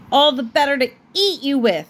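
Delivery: wolf springs the trap with a shout; wolf's cry. Acted. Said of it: "cried the wolf".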